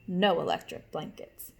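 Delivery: lightly voiced gruff farmer; stern farmer. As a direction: put your foot down as the farmer. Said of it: "said Farmer Brown".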